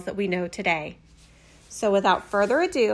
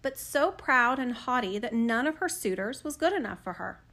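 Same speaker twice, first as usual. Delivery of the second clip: soft, even fairy-tale reading; gentle storyteller voice; storybook narration; 3 dB quieter than usual. A narrator's reading. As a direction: read it like a bedtime story. Reads a fairy tale aloud.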